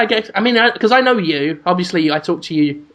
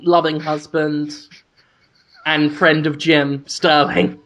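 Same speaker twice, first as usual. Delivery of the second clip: solemn epitaph; 2 semitones lower, slower than usual. Pretend. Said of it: "just have that engraved".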